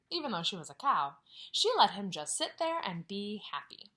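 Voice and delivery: put-on reading a picture book to children; story reading. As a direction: read it out gently to the class. Teacher reads story aloud.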